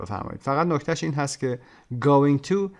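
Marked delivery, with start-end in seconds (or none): 2.0-2.7 going loud, to weak; stress on going. Shown as a demonstration. Teacher showing going takes the stress. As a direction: punch going, swallow to.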